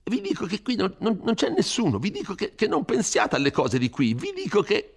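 a frightened priest scolding a rash youth; Don Abbondio, fretful. Acted.

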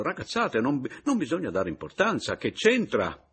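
voce più alta, incredula e schermita; si sottrae imbarazzato; vecchio signore agitato. A narrator's reading. Anselmo refuses, flustered. (il signor Anselmo che rifiuta, agitato)

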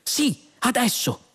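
high, drawn-out eager reply; impatient insistence. A narrator's reading. Men insist to the stalling computer, impatient.

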